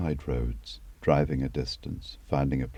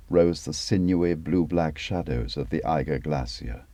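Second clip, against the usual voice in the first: ordinary delivery, nothing marked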